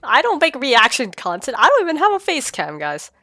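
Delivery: hoarse sick voice. Real, not acted. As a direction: talk through a cold. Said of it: "My sick voice?".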